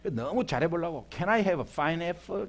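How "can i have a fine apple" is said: very slow Gyeongsang-accented English, laughing at his own F and P. Shown as a demonstration. Pastor mocks his own Gyeongsang-accented English, laughing and very slow. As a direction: struggle over "fine apple" in a thick Gyeongsang accent. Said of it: "경상도 발음이 이게 F, P 이런 거 잘 안 돼요".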